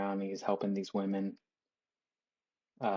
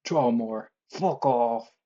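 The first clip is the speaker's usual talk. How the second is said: artist brush-off; 2 semitones higher, 5 dB louder, much slower than usual. Retold or imitated. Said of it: "they're just like".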